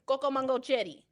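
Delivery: "Coco mango cherry" run together; as one word. Shown as a demonstration. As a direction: join "Coco mango cherry" without any breaks. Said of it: "One word".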